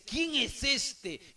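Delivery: pregunta indignada, lenta y aguda; indignado. Acted. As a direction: alarga la pregunta con enfado actuado. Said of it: "se enfurece". (imitando a David enfurecido, sin gritar)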